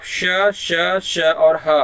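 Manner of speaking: श, श and ह said with lots of breath; sibilants spelt out. Shown as a demonstration. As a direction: push air through for श and ह. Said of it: "उच्चारण कर रहे हैं". (साँस रगड़कर श, श और ह)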